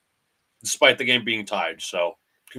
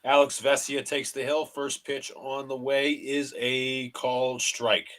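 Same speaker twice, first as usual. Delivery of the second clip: broadcaster cadence, calling each pitch; mock radio play-by-play of a Yankees game; slower than usual. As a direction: call the game like a TV announcer.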